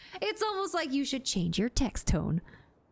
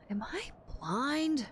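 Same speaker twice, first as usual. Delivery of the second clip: whispering; 2 semitones higher, slower than usual. Real, not acted. Muttering to self.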